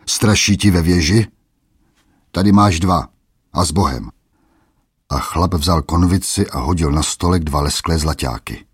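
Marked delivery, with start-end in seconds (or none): 0.1-4.1 bullying taunt. Acted.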